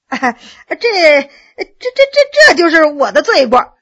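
cowering, stammering with a nervous laugh; frightened stammering. Acted. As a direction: stutter out a guilty excuse. Cowering officer stammers under stare.

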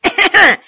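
loud warning cough; deliberate cough. A narrator's reading. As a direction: clear the throat to announce yourself. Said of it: "咳嗽一声".

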